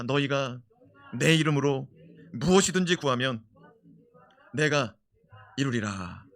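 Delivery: phrase by phrase, loud with pauses; loud declaration. Shown as a demonstration. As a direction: proclaim each phrase. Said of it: "선포합시다". (끊어서 크게 선포)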